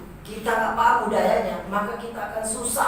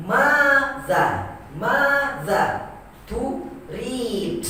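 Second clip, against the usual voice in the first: MADA split slowly, first vowel raised, second dropping; rise on long vowel; 4 semitones higher, much slower than usual. Shown as a demonstration. Teacher breaking down Arabic intonation, long vowels raised in "mada turid". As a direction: stretch and lift "Mada", then "turid". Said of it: "Naik dia sedikit".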